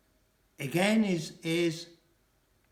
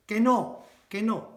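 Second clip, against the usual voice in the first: mock protest; 6 semitones higher, 4 dB louder than usual. Shown as a demonstration. Acting out a Spanish denial.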